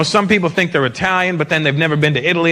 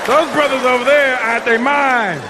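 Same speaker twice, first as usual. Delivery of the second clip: mock complaint; 6 semitones higher, slower than usual. Plays newcomer confiding in white guy.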